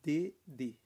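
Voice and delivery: "D D" with a clear hard D; plain French D. Shown as a demonstration. Teacher showing the plain D. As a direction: say "D D" crisply, no "dj". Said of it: "É D normal".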